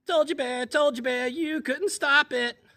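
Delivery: very high, loud squeaky taunt; squeaky chipmunk. Acted. Chipmunk teasing Bear from her den in a very high squeak. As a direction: squeak it out cheekily. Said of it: "heard the little voice again".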